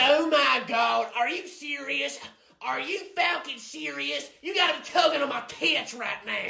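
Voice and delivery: high, furious yelling Karen; outraged shout. Acted. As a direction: rant like an outraged customer. Customer outraged at check.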